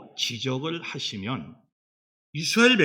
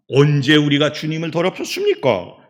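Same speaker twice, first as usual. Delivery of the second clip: louder mock retort of the accused; protesting denial; 6 dB louder than usual. Israelites denying they defiled the Lord, protesting. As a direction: fire back a challenging question. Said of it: "요렇게 또 항변을 합니다".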